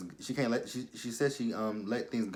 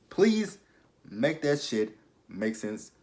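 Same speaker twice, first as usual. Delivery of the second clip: exasperated plea; 3 semitones higher, slower than usual. Real, not acted.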